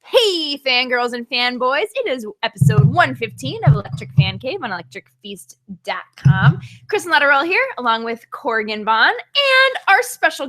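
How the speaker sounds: upbeat show host intro; a touch of announcer read; podcast intro. Acted. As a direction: welcome the listeners like a host.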